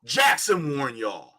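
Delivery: slow, weighty roll call; slow litany. Real, not acted. Host to audience, slow solemn roll call. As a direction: let each name land slowly.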